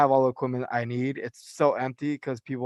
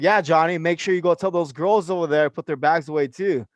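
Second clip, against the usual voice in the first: needling the manager with fake helpfulness; calling out the manager at the gym, sarcastic; sarcastic callout. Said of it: "I called him out on it".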